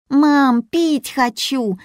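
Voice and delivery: put-on high, whining little girl's plea; whiny child. Little Yulia whines to her mother, high and whiny. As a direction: whine it like a bored kid, high up. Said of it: "законючила Юля".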